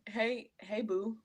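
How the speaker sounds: soft, lightly voiced man; guy voice. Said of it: "Let me get my guy voice".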